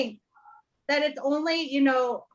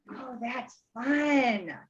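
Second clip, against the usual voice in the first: delighted surprise; much slower than usual. Retold or imitated. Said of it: "And I went".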